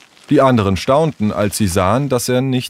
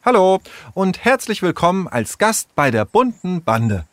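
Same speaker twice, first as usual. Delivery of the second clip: friendly greeting; 10 semitones higher than usual. Acted. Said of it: "begrüßte Tessa Sarah freundlich".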